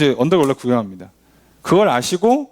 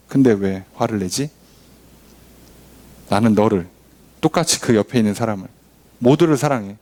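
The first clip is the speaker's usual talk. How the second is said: gentle God voice; 4 semitones lower than usual. Retold or imitated. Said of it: "하나님 말씀하시는 거죠". (하나님 목소리로 낮고 느리게 타이르듯)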